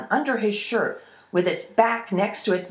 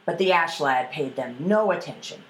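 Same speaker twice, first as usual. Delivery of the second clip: ordinary delivery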